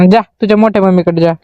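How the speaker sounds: normal talking voice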